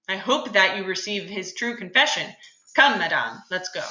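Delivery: reading the script aloud for the class; dramatic play reading. Acted. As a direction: read the scene out with feeling.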